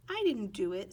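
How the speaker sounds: insistent denial. Acted. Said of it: "Sidney said".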